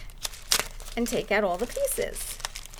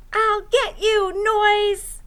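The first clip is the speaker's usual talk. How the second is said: louder, higher playful threat; hammed-up owl chasing the noise; mock angry threat; 10 semitones higher, 6 dB louder, slower than usual. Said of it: "Owl said".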